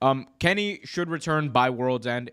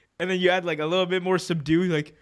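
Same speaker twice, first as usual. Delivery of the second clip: ordinary delivery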